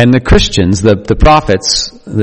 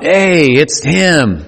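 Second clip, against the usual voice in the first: slightly raised, slow mock holler from a crowd; mock shout; 4 semitones higher, much slower than usual. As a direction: imitate someone calling out, stretched slowly. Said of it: "somebody shouts out".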